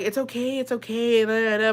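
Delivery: lightly mocking there-there voice; mock reassurance. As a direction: imitate adults brushing off a child. Relatives soothing a scared child, retold.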